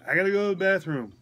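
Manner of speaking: slightly high voice of a patient calling for help; a hint of an imitated patient. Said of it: "I can't understand you".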